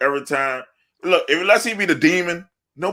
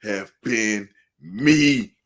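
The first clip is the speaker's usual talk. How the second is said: slow, stretched-out lament; drawn-out mimicry; 3 semitones lower, much slower than usual. Host mimicking a wrestler's regret, drawn-out. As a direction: draw each word out dramatically.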